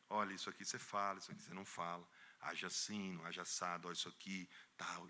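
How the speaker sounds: low, soft teaching voice; patient hushed lessons; quiet instruction. Retold or imitated. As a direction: coach him privately.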